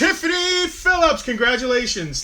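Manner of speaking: very high, loud, hammed-up name call; shouted congratulations. Host congratulates the wheel winner, high excited shout.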